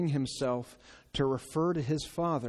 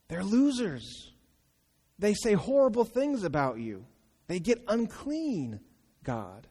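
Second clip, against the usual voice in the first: believer complaining to God about sinners, self-righteous; self-righteous complaint. Pretend.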